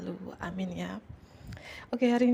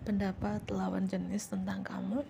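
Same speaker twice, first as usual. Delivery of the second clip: soft whisper with a rising end; hushed, mysterious whisper; 4 dB quieter than usual. Shown as a demonstration. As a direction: breathe the phrase as a secret. Theme repeated as a whisper.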